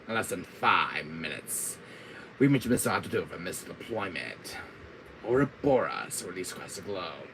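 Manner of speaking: lightly voiced villain announcing a scheme; somewhat low, measured villain; a hint of the mastermind; Wesker. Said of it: "That line with Wesker R five".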